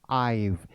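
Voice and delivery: I've said as one syllable, "aiv"; teacher's model of I've; contracted I've. Shown as a demonstration. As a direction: blend I've into one smooth sound. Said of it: "इसकी pronunciation क्या हो जाएगी".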